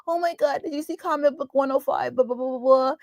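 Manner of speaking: imitating brother. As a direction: gush about comics like a nerd kid. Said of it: "We used to talk like this".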